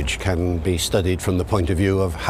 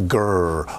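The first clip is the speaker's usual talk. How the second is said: doggy growl; 2 semitones lower than usual. Shown as a demonstration. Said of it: "calls it a doggy sound".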